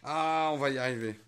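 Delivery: effortful push while twisting; straining to open. Real, not acted. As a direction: strain against a stuck lid. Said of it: "j'arrive pas à l'ouvrir".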